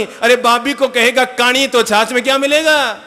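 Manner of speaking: ordinary delivery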